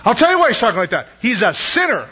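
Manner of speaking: quick mock condemnation; hammed-up disapproving verdict; judgmental. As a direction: imitate someone passing judgment. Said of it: "I mean, very judgmental".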